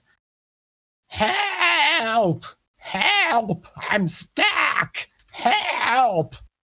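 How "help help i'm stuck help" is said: high, far-off, crying toad creature voice. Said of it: "and says".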